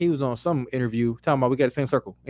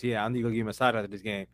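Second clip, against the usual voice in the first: mocking player voice; 5 semitones lower, 7 dB quieter than usual. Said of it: "making little sexual innuendos".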